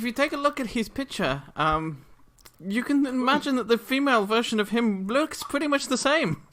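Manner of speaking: laughing. Real, not acted. GM jokes about goblin wife.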